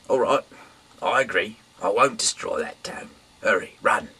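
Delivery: high, loud hurried assent; agree, then press them to run; urgent reply. Acted. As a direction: angel granting the plea in haste. Angel agreeing then urging.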